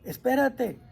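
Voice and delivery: mock call after a passer-by. Shown as a demonstration. Hailing a vendor passing in the street, calling out. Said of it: "usted le grita".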